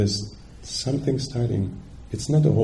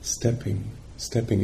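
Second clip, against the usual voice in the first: soft noting label; 5 dB quieter than usual. Shown as a demonstration. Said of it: "noting is like this".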